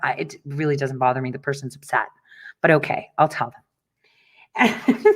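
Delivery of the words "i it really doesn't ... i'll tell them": calm voice. Retold or imitated. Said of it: "I was the calm voice".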